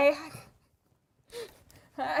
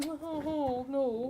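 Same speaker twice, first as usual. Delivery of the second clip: whiny cold complaint; 10 dB quieter than usual. Retold or imitated. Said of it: "the one that's like".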